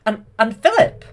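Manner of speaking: loud, high proud shout; excited king. Retold or imitated. Hubert proudly announces his son, loud. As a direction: announce him like a proud father. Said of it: "Hubert's like".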